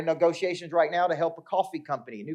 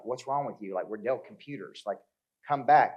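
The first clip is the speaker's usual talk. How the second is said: ordinary delivery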